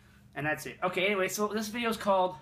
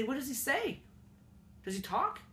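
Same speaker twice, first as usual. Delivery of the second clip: put-on small kid voice; 7 semitones higher, 5 dB quieter than usual. Little kid asking about dog.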